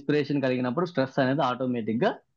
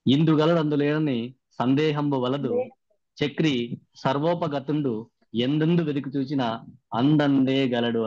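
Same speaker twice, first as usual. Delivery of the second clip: slow, chanted classical verse recitation; recited padyam; slower than usual. Shown as a demonstration. Trainer recites a padyam as his intro for Chakri sir, slow chanted verse. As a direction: intone it like a Telugu poem, drawing out the lines. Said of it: "ఇప్పుడు చెప్తాను ఎలా చెప్పాను".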